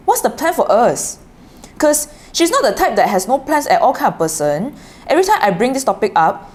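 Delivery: reading in a Singaporean accent. Shown as a demonstration. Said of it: "I'm gonna read it in the Singaporean accent".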